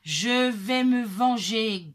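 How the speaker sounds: loud, slow vow of revenge; growling and thundering. A narrator's reading. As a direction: thunder it, drawing out each word. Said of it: "grogne et gronde". (grondement fort, lent et vengeur)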